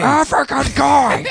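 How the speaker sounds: loud, high, drawn-out shout; yelling. Retold or imitated. Friend echoing the theater heckler, loud slow yell. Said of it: "some guy started yelling".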